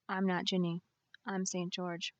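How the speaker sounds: flat, toneless and quiet; no inflection. Acted. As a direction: say it dead flat, emotion drained. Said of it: "she responded with no inflection".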